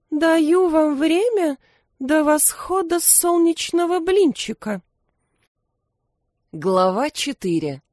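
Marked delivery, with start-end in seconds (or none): 0.1-4.8 queen hissing. A narrator's reading. Queen giving detectives a deadline, icy high voice. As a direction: set the deadline coldly through the teeth. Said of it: "королева тихо процедила".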